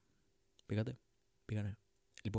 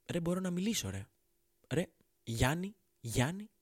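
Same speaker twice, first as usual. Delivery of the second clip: higher, astonished caveman finding his voice; amazed caveman; 6 semitones higher than usual. Acted. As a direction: marvel like a caveman who just learned to speak. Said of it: "γυρνάει και κάνει". (ψηλή, έκπληκτη φωνή ανθρώπου των σπηλαίων)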